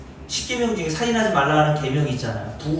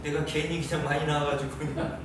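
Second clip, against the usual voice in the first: fed-up parent; 2 semitones lower, 7 dB quieter than usual. Retold or imitated. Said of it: "이런 마음 한 번도 든 적 없어요".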